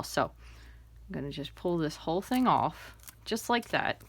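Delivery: talking with something in mouth; mouth full. Real, not acted. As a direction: say it around an object held in the mouth. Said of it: "Pardon me, I had that in my mouth".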